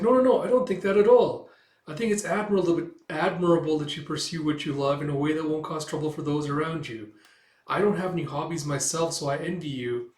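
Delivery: lightly voiced kind young woman; reassuring Yor. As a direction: hurry to reassure her.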